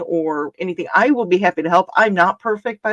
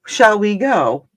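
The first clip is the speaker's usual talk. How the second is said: imperious plummy grande dame. Retold or imitated. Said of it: "That's not what they're gonna say".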